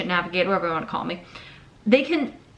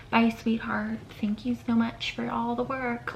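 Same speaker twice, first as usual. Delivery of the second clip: mock sweet goodbye; 4 semitones higher, 8 dB quieter than usual. Boss voiced saying goodbye.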